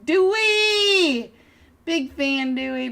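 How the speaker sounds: loud, high call of a name. Real, not acted. Caster spotting a player and calling his name loudly. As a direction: shout the name out to greet him.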